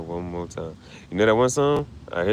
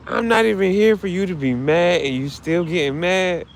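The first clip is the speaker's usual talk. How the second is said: dog's voice; 9 semitones higher than usual. Pretend. Owner voices his dead dog telling him off. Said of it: "She said".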